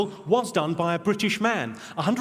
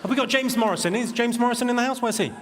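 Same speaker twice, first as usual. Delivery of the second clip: raised pitch, searching the crowd; pitched up to find someone in a crowd; calling out; 6 semitones higher than usual. Pretend. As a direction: call out for someone in the audience. Calling out for an audience member.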